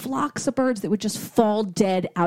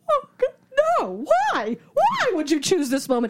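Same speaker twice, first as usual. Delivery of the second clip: higher, mock-anguished protest; retold dismay; 8 semitones higher than usual. Girlfriend dismayed at proposal timing, mock anguish. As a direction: wail it lightly, in disbelief.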